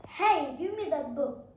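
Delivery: loud, demanding Hey; demanding grab. Shown as a demonstration. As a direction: snap it like you're grabbing the book. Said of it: "So you'll be like".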